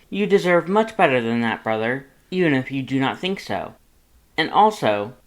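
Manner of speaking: proud, cheery, boastful and loud; good-natured Papyrus. Acted. Papyrus introduces himself to Lust, booming and cheerful. Papyrus lectures his brother.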